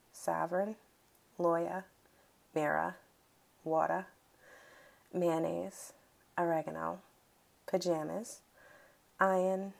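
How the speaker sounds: word list read in her natural Massachusetts accent; relaxed Massachusetts vowels, word by word; Boston accent. Shown as a demonstration. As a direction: let the Boston accent through on each word. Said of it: "I can read it without my accent".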